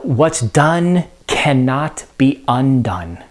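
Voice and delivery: slow, grave recitation of the line; Lady Macbeth, slow. Retold or imitated. Teacher quoting Lady Macbeth to the class, slow and grave. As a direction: let each word sink in slowly. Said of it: "She also says that".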